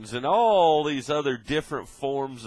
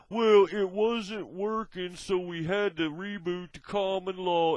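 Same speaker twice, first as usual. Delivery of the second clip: higher, slow, hammed-up official excuse voice; mock official excuse; 4 semitones higher than usual. Ranting at presidents, mock pompous official excuse. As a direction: parody a smug official justifying himself.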